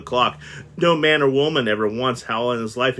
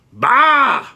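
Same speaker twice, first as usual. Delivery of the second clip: loud, high, dismissive bark; scornful bah; 9 dB louder than usual. Acted. Scrooge scoffing at his nephew, loud scornful bark. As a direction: spit it out in disgust. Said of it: "said Scrooge".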